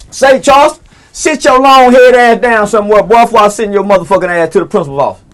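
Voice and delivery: put-on loud, hard teacher telling a kid off; mock teacher scolding. A teacher scolding Charles, loud and rough. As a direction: yell at Charles to sit down. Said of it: "If the teachers can say".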